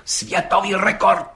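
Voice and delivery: slow, ceremonious, falling on rekord; solemn repetition. A narrator's reading. Gendarme repeating the record to the judge, solemnly. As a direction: savour it like a proclamation. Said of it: "opakoval četník Hejda slavnostně".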